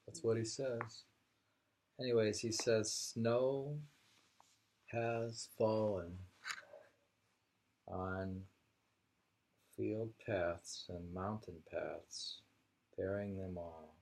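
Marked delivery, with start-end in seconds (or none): 2.9-13.9 slow, measured poem reading. Acted. Reading a haiku to a friend, slow and measured.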